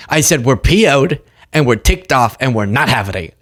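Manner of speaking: loose mock politician with laughs breaking in; half-hearted impression, halting between words; Chuck Schumer. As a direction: lightly imitate a senator making feeble threats. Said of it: "I can't even do his accent".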